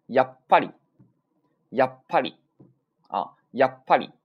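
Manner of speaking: やっぱり cut short after や, silent beat, loud ぱり; sokuon pause demo. Shown as a demonstration. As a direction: punch both halves of やっぱり round a held stop. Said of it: "这种感觉".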